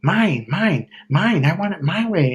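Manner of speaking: lightly voiced whiny toddler; a hint of a greedy five-year-old; spoiled child. Imitating ex as a spoiled kid, lightly whiny. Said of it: "little spoiled five-year-old".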